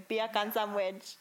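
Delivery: slow, mock Jamaican accent. Shown as a demonstration. Co-host correcting her friend's trick, Jamaican accent. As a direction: draw it out in a put-on Jamaican accent. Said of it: "you do a Jamaican accent".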